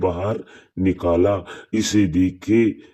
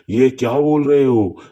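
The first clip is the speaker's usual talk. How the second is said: higher-pitched, mildly startled question; surprised question; 4 semitones higher, 4 dB louder than usual. Acted. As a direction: react with acted disbelief. Story character reacts to news of body. (हैरानी भरा सवाल)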